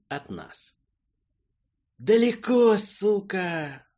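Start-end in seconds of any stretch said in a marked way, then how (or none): 2.0-3.9 desperate cry. Acted. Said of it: "В полном отчаянии засуетился".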